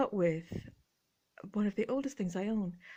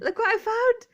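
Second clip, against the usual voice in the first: higher and louder, laughing through it; 14 semitones higher, 9 dB louder than usual. Real, not acted. Speaker shows viewers the creepy hands, laughing high. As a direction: squeal it out mid-laugh.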